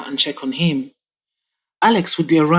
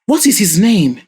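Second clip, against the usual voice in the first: furious demand; 3 semitones higher than usual. Acted. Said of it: "Chief Ibrahim asked furiously".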